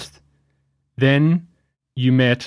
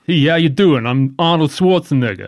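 put-on New York accent. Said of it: "You said in a New York accent".

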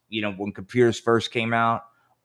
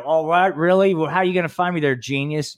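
mocking retort; 3 semitones higher than usual. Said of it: "you know".

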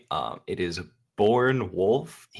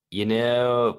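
reading in a put-on Southern American accent; hammy Southern American accent for a European; 4 semitones higher, 5 dB louder than usual. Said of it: "ridiculous Southern American accent that you did".

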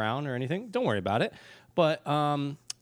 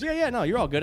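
breezy doctor, much higher; imitating the doctor; 12 semitones higher, 4 dB louder, faster than usual. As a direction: brush off the worry like a casual dentist. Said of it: "he goes".

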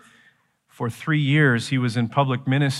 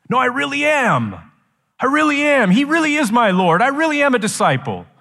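high, pleading insistence; emphatic insistence; 12 semitones higher, 4 dB louder than usual. Acted. False disciple protesting to Jesus that he belongs, emphatic. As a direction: insist on it, pitched well up. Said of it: "He's emphasizing it".

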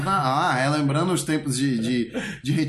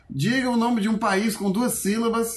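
radio quiz host; 5 semitones higher than usual. Retold or imitated. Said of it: "que o pessoal diz assim".

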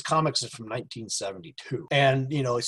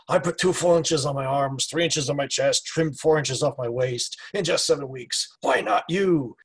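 louder, punchy ad-copy read; reading the ad aloud; 3 semitones higher, 6 dB louder than usual. Retold or imitated. Co-host reads the Arnold ad copy, loud and punchy. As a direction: pitch it like a bodybuilding ad. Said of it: "with the whole".

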